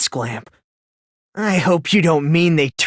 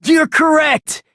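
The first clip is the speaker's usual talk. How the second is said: gleeful confession; 5 semitones higher than usual. Acted. Confesses to the murder.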